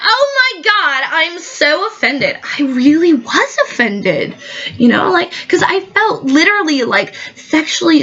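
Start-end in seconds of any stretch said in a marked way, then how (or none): 0.0-2.4 much higher, slow hammed-up offense; mock offense. Guest plays up being offended at the host. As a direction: stretch it out like a scandalized diva.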